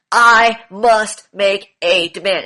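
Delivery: mock stern, slow and loud; imitating a stiff stern demand, slowed down; stern demeanor. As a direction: play a stiff, stern order-giver. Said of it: "he has a stern demeanor".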